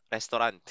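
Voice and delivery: "restaurant" said res-to-RAN, Tagalog style. Shown as a demonstration. Teacher jokingly giving learners the Tagalog "restaurant". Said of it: "Sa Tagalog".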